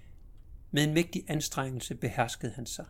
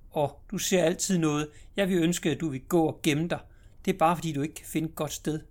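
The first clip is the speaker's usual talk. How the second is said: put-on higher, louder childish complaint; impatient little girl; 4 semitones higher, 5 dB louder than usual. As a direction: nag him like a cross little sister. Sister scolds brother.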